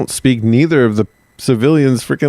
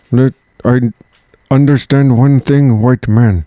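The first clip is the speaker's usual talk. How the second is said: slow, weighty stereotyped chief voice, louder; mock chief voice; 2 semitones higher, 3 dB louder than usual. Shown as a demonstration. Demonstrating the chief voice to his co-host, slow and solemn. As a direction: drawl it out like a movie chief. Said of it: "Just talk like this".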